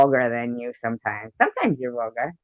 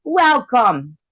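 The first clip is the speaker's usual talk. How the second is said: high, put-on Australian accent; 12 semitones higher than usual. Shown as a demonstration. Repeating the demo for listeners, high mock Australian accent. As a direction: welcome them in a high, hammed-up Australian voice. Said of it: "My Australian".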